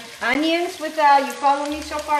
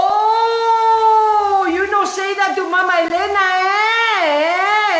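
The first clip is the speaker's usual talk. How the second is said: high, louder mock-offended retort; indignant comeback; 7 semitones higher, 4 dB louder, much slower than usual. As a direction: put him in his place, half playing. She answers the waiter's insult.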